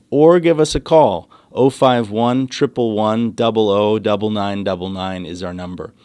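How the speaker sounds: usual speaking voice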